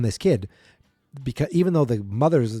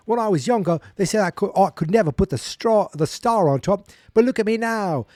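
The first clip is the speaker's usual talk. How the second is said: put-on high kid voice; 7 semitones higher, 3 dB louder than usual. Davy voiced on the tree.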